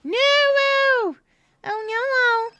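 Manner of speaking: high, loud angrier-Elmo squeak; angry owl voice. Acted. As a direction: squawk it like a cross puppet owl. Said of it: "Cleona has to talk with the owl voice".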